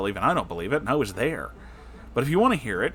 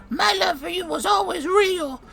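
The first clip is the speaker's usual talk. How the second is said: much higher mocking falsetto; mocking Jabba; 4 dB louder than usual. Narrator mocking the manipulative ex in a high shrill voice. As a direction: sneer it in a shrill put-on voice. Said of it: "saying things like".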